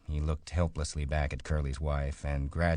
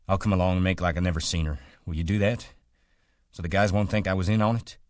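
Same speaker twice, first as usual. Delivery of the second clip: urgent; 3 semitones higher, 6 dB louder, much faster than usual. A narrator's reading. George urgently plans cover story.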